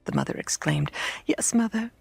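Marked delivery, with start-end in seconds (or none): 1.2-1.9 put-on high, mildly tearful child; lightly acted child in tears; plaintive little admission; bitterly sobbing child. A narrator's reading. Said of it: "the child sobbed more and more bitterly".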